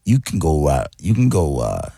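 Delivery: lightly voiced disco DJ navigator; a hint of a groovy radio host; seventies DJ. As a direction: directions with a touch of seventies cool, dropping on the last word. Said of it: "One of the other ones".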